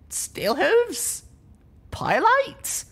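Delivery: high, loud anxious calls; calling out. Acted. Waking alone, calling for her lost friends, high and loud. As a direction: shout their names, hoping for an answer.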